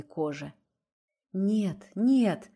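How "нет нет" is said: a louder moaning no, no; desperate moaning refusal; moaned protest. A narrator's reading. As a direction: moan it out in distress. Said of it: "простонала Настя".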